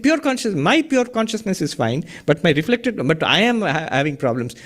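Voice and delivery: a touch of a confused seeker; mocking the student. Teacher quotes a student's confusion back, light mockery. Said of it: "You're saying".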